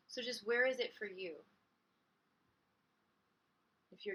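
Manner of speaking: calm guiding voice with long pauses; unhurried meditation guide, softening into the pauses; guided meditation. Acted. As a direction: lead listeners gently inward, leaving space between phrases.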